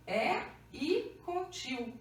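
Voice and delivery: "E I" said slowly as two separate vowels; nasal diphthong spelled out. Shown as a demonstration. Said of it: "é como se fosse um E I". ("E I com tio" devagar, separando as vogais)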